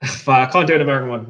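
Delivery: laughing it off; chuckling while talking. Real, not acted.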